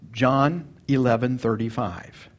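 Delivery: slow and deliberate, word by word; slow recitation. Shown as a demonstration. Pastor leading a memory drill, slow and clear. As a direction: read out slowly for the congregation to repeat. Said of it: "Say that".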